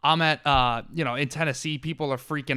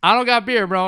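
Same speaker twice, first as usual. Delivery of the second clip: mock exasperated; 7 semitones higher, 9 dB louder than usual. Retold reply, louder.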